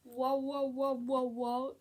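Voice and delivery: loud repeated wow; wowed fan; amazed wows. Real, not acted. Lost for words over plot twist.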